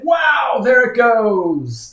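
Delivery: high, drawn-out wow of amazement; amazed outburst. Real, not acted. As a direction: call it out high and stretched as it takes off. Reacts live to sudden price move.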